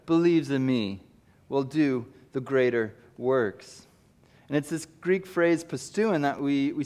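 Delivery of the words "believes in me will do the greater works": Jesus proclaiming. Acted. Jesus turns from Philip to announce to all. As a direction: call it out to the crowd. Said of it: "he comes away from Philip and he says".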